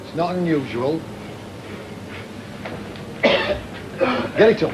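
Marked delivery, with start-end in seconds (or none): 1.1-3.2 retching. Real, not acted. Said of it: "If you want to be sick".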